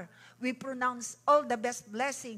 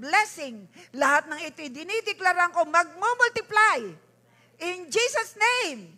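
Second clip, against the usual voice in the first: loud fervent prayer declaration; loud, urgent preacher's prayer; preaching at full force; 8 dB louder than usual. Acted. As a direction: proclaim it over the congregation like a revival preacher.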